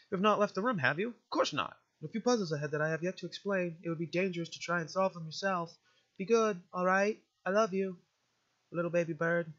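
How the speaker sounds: formal, doting guardian; motherly game guardian. Acted. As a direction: fuss gently over a little one.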